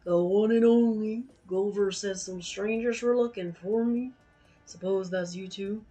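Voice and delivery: lightly voiced southern innkeeper; deep southern twang. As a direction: tavern keeper greets strangers in a southern twang. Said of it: "the deep voice for the Yasserong ... a southern twang".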